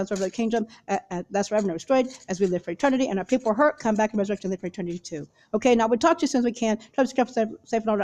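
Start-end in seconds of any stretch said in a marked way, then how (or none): 5.5-8.0 real hurried, run-together sign-off; talking fast. Real, not acted. Hurrying before someone upstairs gets on the recording, talking fast. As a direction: rush through the goodbye, words running together. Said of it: "I'm talking really fast".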